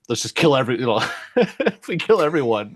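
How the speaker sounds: high giggly scheming voice; Annie voice. Acted. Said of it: "Grinder's like".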